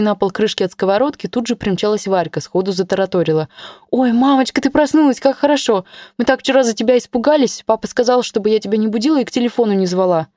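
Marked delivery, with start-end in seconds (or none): 3.9-10.3 lively, higher little daughter voice; little girl. Acted. Daughter Varka greeting her mother, lively higher girl voice. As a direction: chatter like an excited young girl.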